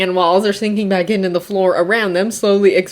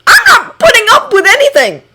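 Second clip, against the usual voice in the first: cheerful husband voice; 6 dB louder than usual. A narrator's reading. Hisashi's voice.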